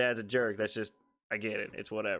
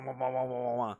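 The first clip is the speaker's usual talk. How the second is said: snowblower sputter. Retold or imitated. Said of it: "she hears this wah".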